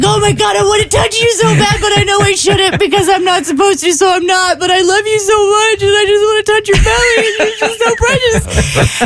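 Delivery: put-on high-pitched squealing baby-talk gush; gushing adoration. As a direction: coo helplessly at an adorable animal, voice way up. Gushing to the manatee, acted out.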